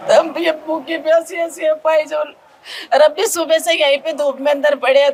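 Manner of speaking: real tears breaking through the words; crying while speaking. Real, not acted. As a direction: speak through sobs about the hungry family. Sister breaks down describing family's suffering. (रोते हुए बोलना)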